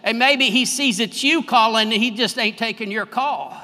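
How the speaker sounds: teasing quip breaking into a laugh; laughing mockery of the prophets of Baal; mocking, laughing. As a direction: poke fun at them with a chuckle. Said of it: "he probably would have said".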